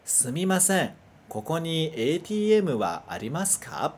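careful Japanese pronunciation of "Sumimasen, koko ni A T M wa arimasu ka?", each syllable clear; teacher models "Sumimasen, koko ni A T M wa arimasu ka?" for students to repeat; slow Japanese model phrase. Shown as a demonstration. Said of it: "Lê junto comigo".

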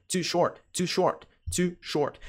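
TOO in "too short" with a clean 't', not "chu"; correct too short. Shown as a demonstration. Teacher repeats for learners, TOO with a pure 't'. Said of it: "é too short".

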